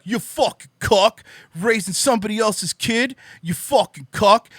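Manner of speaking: lightly voiced sneer at a man raising another's kid; mocking trad con. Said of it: "the fucking trad cons are like".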